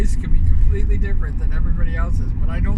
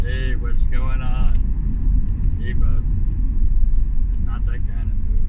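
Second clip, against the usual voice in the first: lower, very slow movie-guy voice; a hint of a lower recorded voice; deeper real voice; 4 semitones lower, slower than usual. Shown as a demonstration. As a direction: drop low and drag each word. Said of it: "it's like this".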